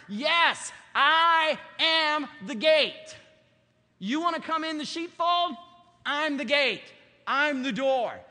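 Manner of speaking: preacher thundering the gospel; loud preaching. Real, not acted. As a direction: drive each claim home at full voice. Preaching climax.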